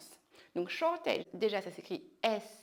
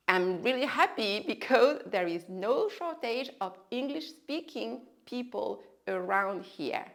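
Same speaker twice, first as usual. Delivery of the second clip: slow repetition. Shown as a demonstration. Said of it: "Let me repeat".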